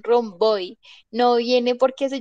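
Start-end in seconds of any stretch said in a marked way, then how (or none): 0.0-0.8 put-on romboy, hispanicized "rom-BOY"; mal pronunciado. Shown as a demonstration. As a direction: roundabout garbled into Spanish romboy. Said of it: "está muy mal pronunciado". (romboy a la española, "rom-BÓI")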